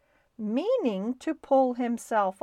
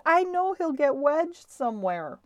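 high, wailing worry; tearful; 6 semitones higher, 4 dB louder than usual. A narrator's reading. Missus Little fearing Stuart is stuck, tearful. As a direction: fret aloud in a raised, tearful voice. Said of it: "Missus Little began to cry".

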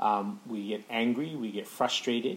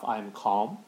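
calm self-talk mantra. Shown as a demonstration. Father demonstrating his breathing mantra to listeners, calm and measured. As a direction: breathe in, then say it gently to yourself. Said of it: "breathe in and say to myself".

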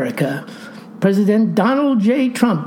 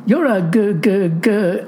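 stammering. Acted. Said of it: "Libby stammers".

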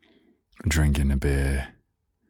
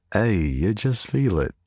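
action hero; 6 semitones higher than usual. Retold or imitated.

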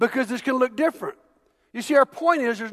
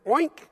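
put-on toddler oink; 5 semitones higher than usual. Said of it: "And they go".

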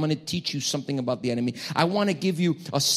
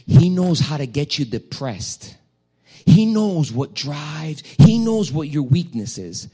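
louder, slower, punching each he knows; emphatic preaching; 7 dB louder, slower than usual. Real, not acted. Preacher to congregation, loud emphatic warning. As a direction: drive it home to the congregation.

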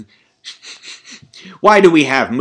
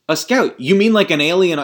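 Mindhunter quote; 6 semitones higher, 4 dB louder than usual. Retold or imitated. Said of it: "he goes".

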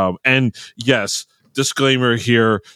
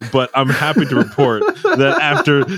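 breaking into laughter while reading aloud; laughing; 2 semitones higher than usual. Real, not acted. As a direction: crack up halfway through the sentence. Cracks up while reading a text.

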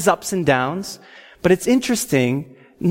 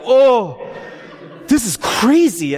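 hammed-up overwhelmed wonder; acted spiritual intoxication; 5 semitones higher, slower than usual. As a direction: reel as if drunk on the Spirit. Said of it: "like I was intoxicated with the Holy Spirit".

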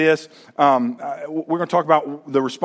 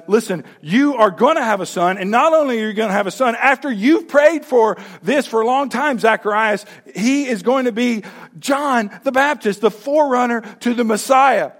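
lightly voiced eager angel, higher; excited announcement; 4 semitones higher than usual. Angel telling Zacharias of his son, eager and higher. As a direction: spill the good news with growing joy.

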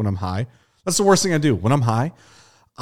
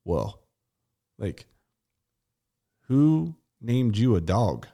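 stoned wonder; slower than usual. Retold or imitated. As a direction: drift through it like a baffled stoner. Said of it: "I was like".

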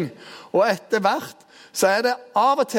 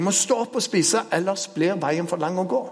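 angel urging; 3 semitones higher than usual. Retold or imitated. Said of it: "Og engelen går bort en gang til".

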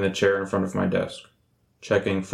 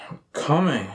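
calling out; 8 semitones higher than usual. Acted. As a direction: shout it to the visitor. Called through door, knocking.

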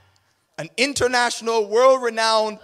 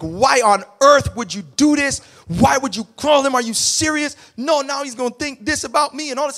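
furious scolding; 4 semitones higher than usual. Retold or imitated. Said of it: "So I am absolutely furious".

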